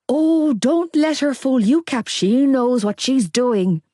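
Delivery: slow conspiratorial argument; suspicious. A narrator's reading. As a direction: warn them, slow and wary. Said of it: "Gibbsy argued".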